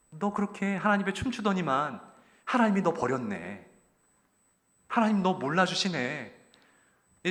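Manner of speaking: jeering at a fallen king, mildly; mock him for being abandoned; mocking taunt. Satan mildly mocking David for being abandoned by God. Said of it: "조롱하고 있다라는 것이죠".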